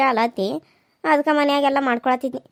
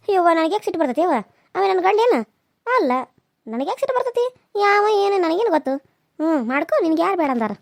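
quick, higher, sarcastic village woman; mock huffy retort; 3 semitones higher than usual. Raji tells the neighbour she is not angry, huffy and higher. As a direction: snap back that it is none of her business.

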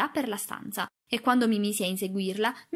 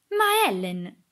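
louder cry of dismay; aghast cry; 2 semitones higher, 5 dB louder, much slower than usual. A narrator's reading. Girl to her nurse after being insulted, aghast. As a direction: appeal to her, mildly stunned. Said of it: "gridò lei, ... paralizzata dallo sbigottimento".

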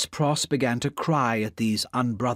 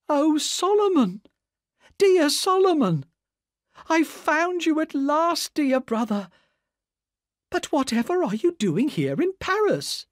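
high, loud cry of a sister finding her lost brother; loud joyful cry; 3 dB louder than usual. Acted. Miss Pross spots her brother in a Paris wine shop, crying out high and loud. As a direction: call out across the shop, overjoyed. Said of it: "cried out in a loud voice".

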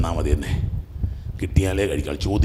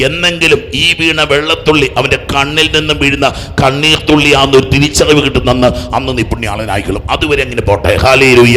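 loud, raised sermon voice ending in praise; forceful preaching; 6 semitones higher, 8 dB louder than usual. Real, not acted. Preacher promising holiness through tears of repentance, forceful preaching. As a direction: proclaim it strongly to the crowd.

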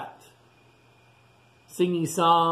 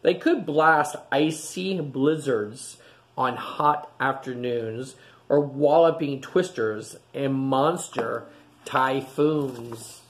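gentle storybook read-aloud voice; storybook rhythm for little listeners; reading to children; slower than usual. A narrator's reading. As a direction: read it like a bedtime picture book. Reading picture book to children.

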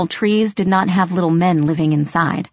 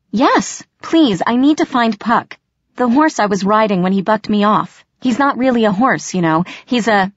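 desperate rush; 4 semitones higher than usual. Acted. Desperate girl rushing to explain.

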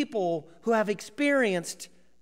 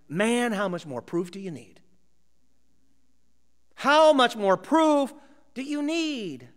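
1 exasperated; 5 dB louder than usual. Retold or imitated. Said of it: "one of the other disciples saying".

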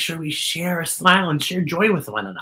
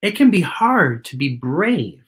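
put-on reading to children. Host reading a picture book to kids, gentle read-aloud. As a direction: read it like storytime for little ones.

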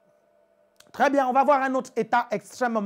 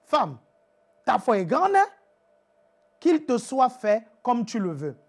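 amazed Jesus. Acted. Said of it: "mais il dit".

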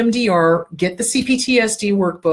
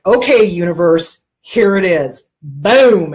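louder, proclaiming to the universe; declaration; 3 semitones lower, 6 dB louder, slower than usual. Shown as a demonstration. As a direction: read it out like a grand declaration. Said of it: "like a fucking Declaration of goddamn Independence".

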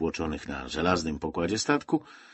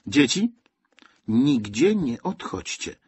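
raised, mildly anxious instruction; 6 semitones higher, 4 dB louder, slower than usual. A narrator's reading. Zosia orders her charges to stay, mildly anxious. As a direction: call out, then slow down with concern. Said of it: "poleciła z niepokojem Zosia".

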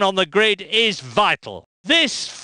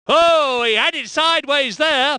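excited; 5 semitones higher than usual. Acted. Commentator to viewers as a car goes sideways, sudden excited alarm. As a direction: caught off guard by the slide.

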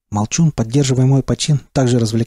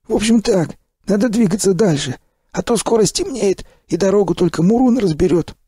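high, cheery gruff stalker praise; hearty stalker; 6 semitones higher than usual. Acted. Sipliy cheers the revived narrator in a high, hearty voice. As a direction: clap him on the back with your voice.

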